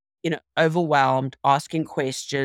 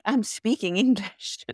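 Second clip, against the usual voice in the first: higher, slow exasperated protest; 5 semitones higher, slower than usual. Retold or imitated. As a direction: spell it out slowly, fed up with not being understood. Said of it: "it's painful".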